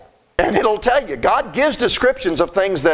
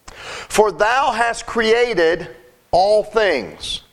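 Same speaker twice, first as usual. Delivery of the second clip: very slow, weighty scripture reading; much slower than usual. Acted. Preacher reading the verse slowly to the congregation, weighty. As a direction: lay out each word of the verse.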